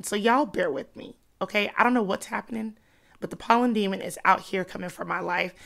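stuffy congested voice from allergies; talking through a blocked nose. Real, not acted. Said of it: "when I sound like this".

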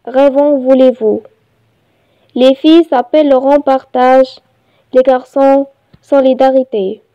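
measured reading with pauses between phrases; poem recitation. Shown as a demonstration. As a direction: recite it line by line, evenly paced. (إلقاء قصيدة بتأنٍّ)

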